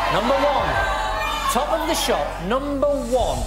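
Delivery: bingo caller. Acted. Host calls the chosen number.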